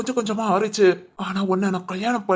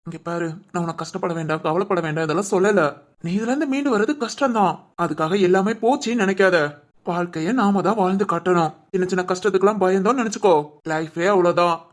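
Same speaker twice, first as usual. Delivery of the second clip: gentle counsel; 5 semitones lower than usual. Acted. Husband gently comforts his wife, low and tender.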